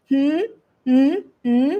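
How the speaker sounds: "Hmm?" hummed upward, mouth closed; short questioning rise on each "Hmm"; second tone, rising. Shown as a demonstration. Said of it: "that's the second tone".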